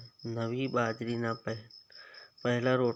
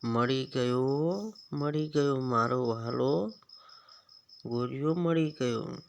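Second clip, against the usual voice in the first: joyful. Acted. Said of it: "Somabhai તો નાચવા માંડ્યા".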